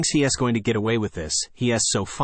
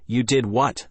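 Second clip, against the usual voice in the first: furious; slower than usual. Acted. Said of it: "I ask, furious".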